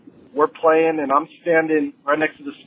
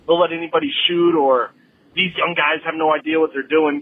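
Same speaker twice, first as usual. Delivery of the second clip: a hint of a snippy old lady, scornful; lightly mock her sniping at young players. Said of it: "kinda giving us some attitude".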